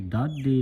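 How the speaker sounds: ਦਾਦੀ with a doubled middle consonant; tight adhak. Shown as a demonstration. Teacher models for the congregation, ਦਾਦੀ said tight. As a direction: hold the middle of ਦਾਦੀ, dad-dhi. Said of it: "ਅਧਿਕ ਲਾ ਕੇ ਉਚਾਰਨ".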